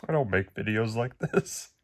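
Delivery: holding back tears, voice cracking; voice breaking. Real, not acted. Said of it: "sorry if my voice breaks".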